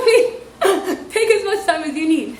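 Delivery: laughing through mock patience; laughing sarcasm. Real, not acted. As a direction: giggle out a sarcastic permission.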